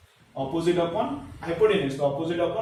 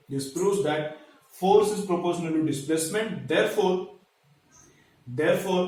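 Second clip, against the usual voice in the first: slow, measured dictation for note-taking; dictating teacher, phrase by phrase; much slower than usual. Acted. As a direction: read it out slowly for students to copy. Dictates a sentence to write.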